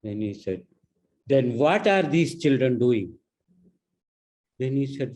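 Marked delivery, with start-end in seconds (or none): 1.3-3.1 angry demand. Retold or imitated. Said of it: "laughing angrily".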